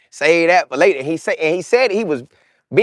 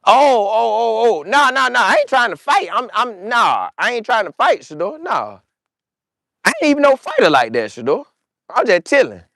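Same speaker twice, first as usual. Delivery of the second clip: higher, hurried nervous backing off; backing down nervously; 5 semitones higher than usual. Retold or imitated. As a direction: plead that you don't want a fight. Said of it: "Jerry was like".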